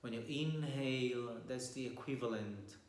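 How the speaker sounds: calm meditation guide with long pauses; guided meditation. Real, not acted. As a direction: guide listeners gently through posture and breath, leaving long silences.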